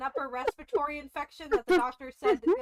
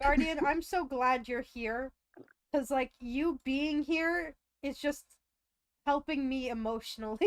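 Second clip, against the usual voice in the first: mock sentimental. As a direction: lay the gratitude on thick. Mock sappy thanks to friend.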